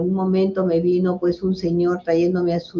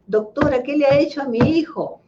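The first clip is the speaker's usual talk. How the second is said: worried father; 6 semitones higher than usual. Retold or imitated. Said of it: "me llama en la tarde preocupado".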